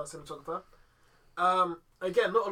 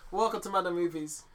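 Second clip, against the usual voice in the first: loud, slow, hyped-up shout; hype host intro; 6 semitones higher, 10 dB louder, slower than usual. Shown as a demonstration. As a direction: open the show like a hype man. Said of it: "let me show you".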